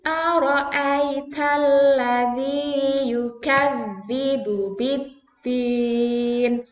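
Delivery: slow, drawn-out chanted verse; slow recitation. Shown as a demonstration. Teacher recites with the class, slow and drawn out. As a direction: stretch each long vowel. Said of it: "yuk bersama-sama".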